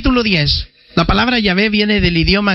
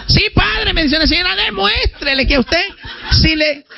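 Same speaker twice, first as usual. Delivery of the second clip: high, laughing goad of the priest; mocking laugh; 9 semitones higher than usual. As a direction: tease him through laughter.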